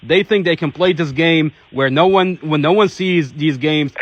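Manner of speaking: fervent outcry. Real, not acted. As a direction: hammer each accusation home like a rally speech. Advocate denouncing officers, rising fervour.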